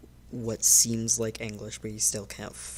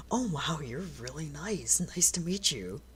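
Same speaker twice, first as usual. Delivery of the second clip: friendly character voice; 4 semitones higher than usual. Acted. Ghost greets the stranger.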